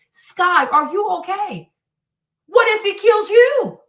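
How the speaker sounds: loud, high alarmed question to Sky; exasperated appeal. Acted. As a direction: raise your voice in disbelief at her.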